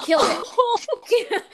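drawn-out "Killed it" through laughter; half-laughing, high and slow. Real, not acted. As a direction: laugh out the words slowly in disbelief. Retelling the fish's death.

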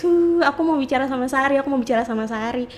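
lightly mimicked tearful pleading; mock wail sliding into a plea; imitated crying. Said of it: "gitu kan, nangis".

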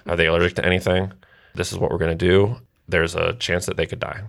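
imitating a detached doctor reading off questions; understated mock clinical indifference; poor bedside manner. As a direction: recite it like a routine checklist, no comfort. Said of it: "the worst bedside manner ever".

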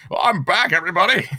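high-pitched comic entrance; mock returning guest. Host playing a guest star back again, hammed-up high voice. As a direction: announce a comeback in a put-on high voice.

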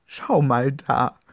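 excited pointing. Acted. Pointing at the dog.

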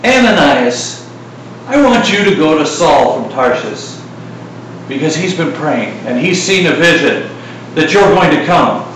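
calm divine call, gently voiced; a hint of God speaking. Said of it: "have the Lord appear to you and say".

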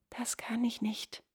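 soft, half-whispered no; hushed refusal. A narrator's reading. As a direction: refuse under your breath. Frightened wife refuses in hush.

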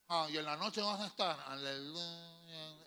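put-on drunken taunt with a long, slow dragged-out aleluya; mock the grandmother like a drunk; mocking drunk uncle. Drunk uncle taunting his converted mother, dragging aleluya. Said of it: "mi tío borracho le dijo".

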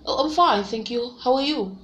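a light put-on British reply; lightly put-on British accent. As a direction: answer politely like a Brit. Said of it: "And they'll be like".

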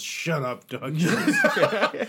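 half-hearted group yell, tipping into a laugh; playful mock heckle; mock crowd yell. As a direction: imitate a whole bar yelling, without much volume. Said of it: "turns around and yells".

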